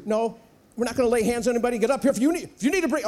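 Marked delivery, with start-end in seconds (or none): 1.8-3.1 hyped-up preacher calling people forward; mock revivalist altar call.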